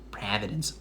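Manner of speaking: put-on Providence accent with a flattened first vowel. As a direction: say it like a Providence local. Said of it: "hers is more like Providence, specifically".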